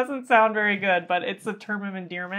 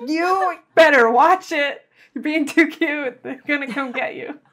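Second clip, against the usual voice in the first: mock warning to pet; 7 semitones higher, 6 dB louder than usual. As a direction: playfully threaten the cat. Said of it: "'Cause I'm like".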